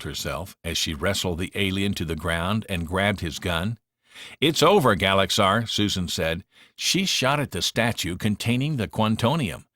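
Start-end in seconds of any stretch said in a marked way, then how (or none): 4.4-5.7 triumphant declaration. Acted. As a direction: slam the door on the villain with it. Susan beats the alien villain.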